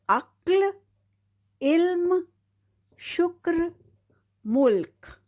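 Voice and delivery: each word high and clear, ends only touched; reading the word list. Shown as a demonstration. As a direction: read the line as a model. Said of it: "तो हम पूरी line पढ़ते हैं".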